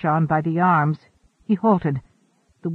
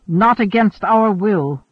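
firm interruption; 3 semitones higher, 6 dB louder, slower than usual. A narrator's reading. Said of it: "Wanderer interrupted".

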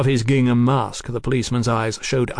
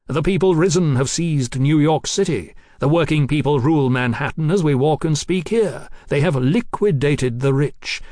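higher, driving, emphatic speech; fervent Marquis oratory; 4 semitones higher, 4 dB louder than usual. Acted. Marquis boasting of Manhattan's rising, fervent and emphatic. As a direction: hammer out each triumph of the rising.

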